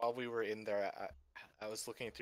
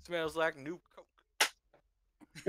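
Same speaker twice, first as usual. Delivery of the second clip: drawn out, tasting the words; slow savoring; 7 semitones higher, 8 dB louder, much slower than usual. Pretend. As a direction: savor it like a wine. Mock slow savoring line.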